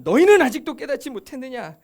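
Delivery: loud, reproachful question; 예수님 rebuking. Retold or imitated. Jesus to disciples who asked the meaning, loud reproach. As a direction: rebuke them for still not getting it. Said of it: "우리 예수님은".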